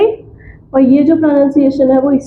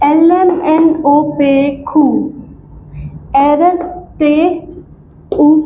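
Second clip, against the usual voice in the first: alphabet recitation tone. Shown as a demonstration. Teacher modelling the German alphabet for students, recitation tone. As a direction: recite letters in small paced groups. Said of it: "we learn it in the tone".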